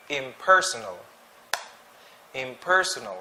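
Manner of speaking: "Impersonal" with stress on PER; stress on second syllable. Shown as a demonstration. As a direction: lean on PER in "Impersonal", then let it fall. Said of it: "the stress is in the second syllable".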